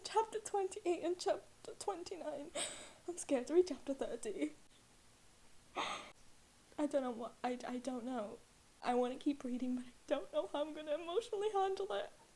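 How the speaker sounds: on the verge of crying. A reader tells the audience about the chapters just finished, close to tears. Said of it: "I'm actually gonna cry. I'm shaking for real".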